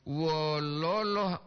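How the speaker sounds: "wololo" with a drawn-out double O, slow; long double o. Shown as a demonstration. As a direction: stretch the O sounds in "wololo" slowly. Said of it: "wololo habari itu artinya sedih kabar". (ucapkan "wololo" pelan dengan O panjang)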